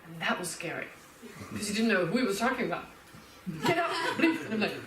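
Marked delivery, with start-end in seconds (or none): 3.6-4.4 stern dismissal. Retold or imitated. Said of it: "I've seen him kick out a monk".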